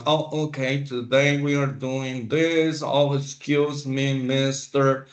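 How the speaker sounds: level and lifeless, every word the same; mock monotone with no rise or fall; flat robotic monotone. Shown as a demonstration. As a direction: read it out like a bored robot. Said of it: "You can't be flat like a robot".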